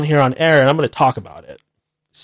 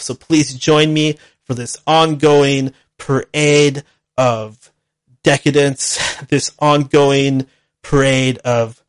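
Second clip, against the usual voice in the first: mock grand sign-off; slower than usual. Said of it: "No, I'm just kidding".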